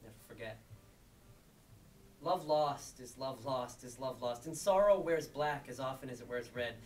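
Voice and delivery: measured spoken-word delivery with pauses; poem reading. Acted. Reading a poem to someone lost, measured spoken-word delivery. Reads own poem aloud.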